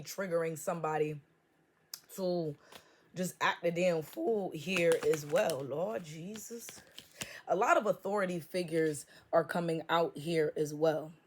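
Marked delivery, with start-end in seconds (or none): 5.6-6.7 slow whisper; whispered aside. Real, not acted. Reader whispering to the Lord in disbelief. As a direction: breathe it out to the Lord.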